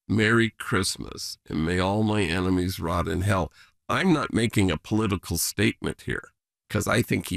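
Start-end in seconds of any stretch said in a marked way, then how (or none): 0.1-3.5 deadpan quote. Retold or imitated. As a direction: drop the voice and spell out the greeting word by word. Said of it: "nobody well has ever sent that message out".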